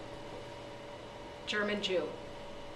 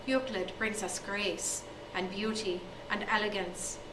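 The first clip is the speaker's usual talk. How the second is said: slow reverent hush; 6 dB quieter, slower than usual. Acted. Teacher reveres Euclid.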